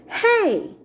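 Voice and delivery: high-pitched mimicked "hey"; echoed yelp. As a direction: throw it back like a mocking echo. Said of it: "her voice coming back at us".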